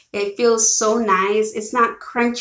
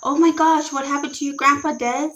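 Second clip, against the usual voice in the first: shocked concern; 5 semitones higher than usual. Real, not acted. Reads sad news in chat.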